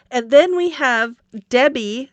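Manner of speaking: fighting off a sneeze, slowed down; holding back a sneeze. Real, not acted. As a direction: talk through a tickle in the nose. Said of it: "Sorry, I'm trying not to sneeze".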